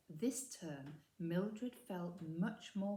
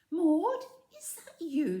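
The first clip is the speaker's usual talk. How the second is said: loud, higher call across the yard; 9 semitones higher, 12 dB louder than usual. A narrator's reading. Mildred spotting her friend Maud, calling out loud. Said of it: "she called".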